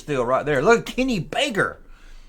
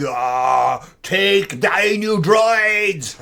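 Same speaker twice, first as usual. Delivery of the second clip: slow, drawn-out alien creature voice; Jawa voice; much slower than usual. Retold or imitated. Jawa trying to sell droids, in a slow, drawn-out creature voice. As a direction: stretch the words out like a little Jawa. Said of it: "the Jawa's like".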